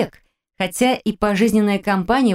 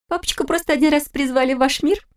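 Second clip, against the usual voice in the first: put-on much higher, giggly teenage girl; girlish voice; 9 semitones higher than usual. A narrator's reading. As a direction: tease it like a mischievous daughter. Giggling daughter voiced high.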